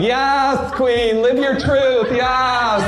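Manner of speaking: high, gushing cheers; cheering women. Retold or imitated. Women online cheering her cheating, gushing and high. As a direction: hype her up like a fan. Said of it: "all the women would be like".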